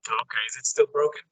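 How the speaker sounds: muffled like in a fishbowl; underwater. Real, not acted. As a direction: voice through a bad connection. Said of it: "sounds like you're in aquarium".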